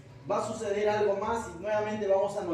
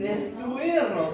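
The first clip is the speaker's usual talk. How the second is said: demon voice; 3 semitones higher, 4 dB louder, much slower than usual. Acted. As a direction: hurl the question like a threatened spirit. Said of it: "¿Qué más?".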